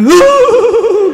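sudden very high, loud wail; high wail burst. Retold or imitated. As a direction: shriek of grief. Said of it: "cái hết hồn".

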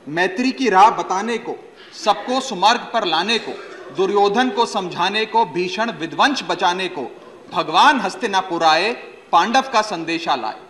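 measured, rhythmic Hindi verse recital; poem recitation. Acted. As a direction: recite epic verse to the assembly, line by line. Recites Dinkar's epic poem.

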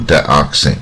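dioxin with the stress on its O syllable. Shown as a demonstration. Teacher showing where dioxin is stressed, O syllable stressed. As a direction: lean on the "ox" in dioxin. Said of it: "重音在O这边啊，O的上面".

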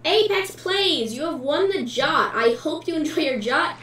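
hyped giveaway announcement. Real, not acted.

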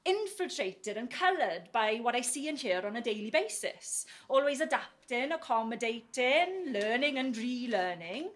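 lightly put-on Australian accent; Australian soap accent. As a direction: slip into an Australian soap twang. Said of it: "namely Home and Away and Neighbours".

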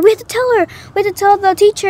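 high, mildly urgent mock cry; retold urgency. Two kids running inside for the teacher, mock urgent cry. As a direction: lightly imitate kids raising the alarm.

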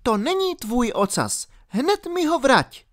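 put-on high-pitched girl giving an order; commanding. A narrator's reading. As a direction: order the dog firmly, voice high. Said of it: "poručila Alenka psovi". (rozkaz vysokým dívčím hlasem)

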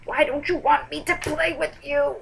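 high, loud mock whine; mock pleading. Vlogger to the taped-shut playing cards, mock pleading. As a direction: plead in a put-on wounded voice.

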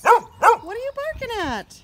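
barking dog is asked in a loud high coo; loud pet talk. Real, not acted.

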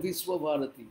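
বিশ্বভারতী said as "Vis-wo-bharati"; English-style pronunciation. Shown as a demonstration. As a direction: sound the s in বিশ্বভারতী as s, not sh. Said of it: "ইংরেজিতে বলে". (ইংরেজি ধাঁচে "বিশ্বভারতী", স দিয়ে)

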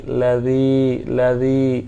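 লাযী as "la-dhee", th as in "this"; soft dhal. Shown as a demonstration. Teacher drilling the soft letter, soft "dh" in লাযী. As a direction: say লাযী softly on the dhal, no buzzing z. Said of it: "উচ্চারণে শিখেছি নরম".

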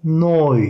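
"neu" said slowly NOY; slow German oy in "neu". Shown as a demonstration. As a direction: draw out "neu" with an oy glide. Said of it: "oy koyduğumuz zaman".

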